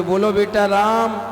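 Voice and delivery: lightly voiced guru, slow drawn-out prompt; coaxing guru. Guru urging a stubborn boy to say Ram, lightly coaxing. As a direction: gently stretch the words as if prompting a child.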